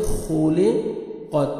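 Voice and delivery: "خلقت" slowly with a thick, throaty kh; heavy khaa. Shown as a demonstration. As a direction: round out the first sound of "خلقت". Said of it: "خو کو موٹا کر کے پڑھیں گے". ("خلقت" کی خا موٹی کر کے)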